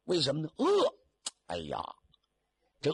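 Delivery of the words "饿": very high, loud cry of hunger; hungry wail. Acted. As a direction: wail it out, starving. Narrator crying out hunger. (说书人高声喊饿)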